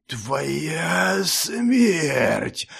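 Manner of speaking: a touch of a vicious creature hiss; a beast's mild malicious hiss; monster's hiss. A narrator's reading. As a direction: snarl the threat. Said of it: "злобно прошипело чудовище".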